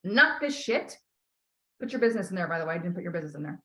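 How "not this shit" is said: slow, firm and defiant; firm declaration. Shown as a demonstration. Coach showing the client how to declare to guides, firm and slow. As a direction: declare it to your guides like a vow. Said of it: "You need to make it as a declaration and say".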